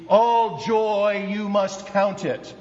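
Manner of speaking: slow, emphatic read of the Greek order; emphatic word order. Shown as a demonstration. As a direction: lean on All joy to open the line. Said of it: "he puts it in the place of emphasis".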